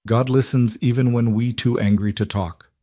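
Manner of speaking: put-on older woman, thick Polish accent. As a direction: speak with a heavy Polish accent. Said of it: "in her thick accent".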